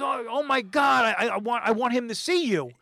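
imitating her thrilled reaction; excited gush. Jess excited about De Niro.

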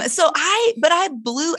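ordinary talk, nothing marked

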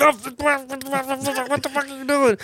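high, slow mock shriek of disbelief; imitating a man seeing his car launched; squeaky, high, slowed-down outraged cry; shocked yelp. Don reacting to his car flying.

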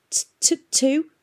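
frightened stammer, high. A narrator's reading. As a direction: stammer out the word. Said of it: "stammered Tom".

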